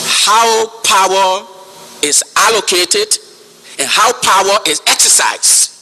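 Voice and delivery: slow, spaced-out stress on "power"; emphasis on power. Real, not acted. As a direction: lean deliberately on "power", pausing between phrases. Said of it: "I'm putting emphasis on power".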